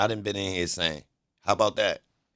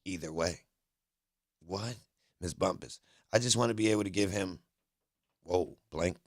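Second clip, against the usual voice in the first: choppy transcript reading; 3 semitones lower, 6 dB quieter than usual. Acted. Streamer reading a court transcript to viewers, choppy and unfinished. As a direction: read court dialogue in broken fragments. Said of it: "them chops ups I was just doing".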